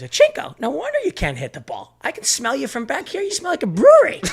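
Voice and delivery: high, loud mocking coach yell building to a laugh; furious coach. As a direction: taunt the catcher like a raging coach. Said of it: "Then he goes to me, he goes".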